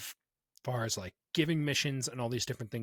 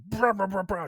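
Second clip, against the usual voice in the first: mock protest; 5 semitones higher, 4 dB louder than usual. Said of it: "he's like".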